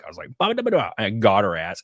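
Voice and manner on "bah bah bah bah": high-pitched rapid "bah" comeback noises; playful burst of nonsense jabs; quick mock jabs. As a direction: imitate rapid-fire roasting. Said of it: "and I was real quick".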